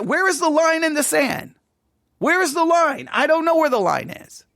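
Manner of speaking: West Texas accent, real; West Texas twang. Real, not acted. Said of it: "my Texas accent's coming out there".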